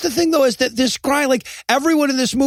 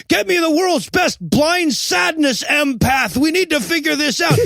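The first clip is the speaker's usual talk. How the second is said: higher, urgent mock command; mock yelling; 5 semitones higher than usual. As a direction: call it out like a hammed-up movie boss. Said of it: "the one guy's yelling".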